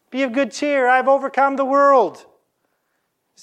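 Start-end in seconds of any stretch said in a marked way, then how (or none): 0.1-2.2 higher, ringing proclamation; voiced Jesus, proclaiming. Jesus calling to frightened disciples on the water, proclaiming loudly. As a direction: call out comfort like a preacher at full force.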